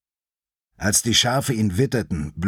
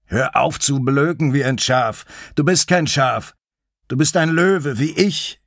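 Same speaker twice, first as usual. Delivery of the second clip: raised pitch, firm reprimand; commanding lion, mildly exasperated; insistent mountain lion; 5 semitones higher, 4 dB louder than usual. Acted. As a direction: scold the young one with rising insistence. Narrator voices the mountain lion.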